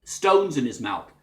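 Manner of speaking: lightly imitated Scouse, stones in the mouth; Scouse accent as if mouthing round stones; a Liverpool singer. Shown as a demonstration. Teacher imitating a Liverpool singer, light Scouse accent. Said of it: "talks as though he's got a few stones".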